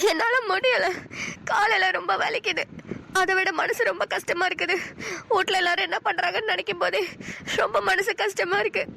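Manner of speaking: worn out and close to crying; tearful. Acted. Homesick, aching wife breaks down to her husband, tearful. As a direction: complain through tears, catching your breath. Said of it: "சரி, அழுவாத பிளா".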